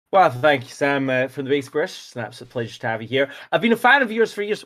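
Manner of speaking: lightly voiced mock interviewer welcoming a guest; imitating Carl. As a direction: play the host with a hint of another voice. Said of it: "you do a fairly good impression".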